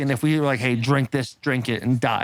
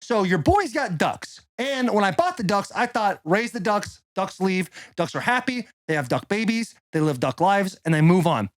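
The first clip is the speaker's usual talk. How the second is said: emphatic, swinging sales-pitch delivery; ad read; 4 semitones higher than usual. Acted. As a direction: sell it with exaggerated, punchy emphasis. Recorded host-style ad read with story.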